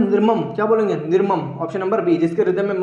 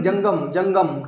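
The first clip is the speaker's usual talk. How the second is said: जंगम spelled out very slowly, twice; teacher repeating जंगम very slowly; slow drilled repetition; 3 semitones lower, much slower than usual. Shown as a demonstration. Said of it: "जंगल नहीं".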